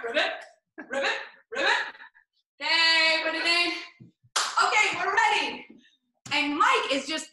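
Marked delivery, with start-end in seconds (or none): 0.0-1.9 frog ribbit. Pretend. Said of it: "Let me hear a few rivets".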